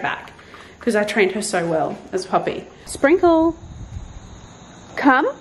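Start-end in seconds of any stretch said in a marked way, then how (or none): 2.9-5.3 the special call tone. Real, not acted. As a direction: call her in that tone she knows. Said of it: "that is the tone".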